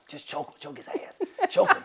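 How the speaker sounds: high laughing repeat; laughing through the advice. Real, not acted. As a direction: laughs as he says it.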